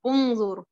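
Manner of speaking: उन्जुर begun with a short "u"; उन्जुर said as "un-zur"; damma start. Shown as a demonstration. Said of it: "Hamza के ऊपर भी दम्मा डाल दिया".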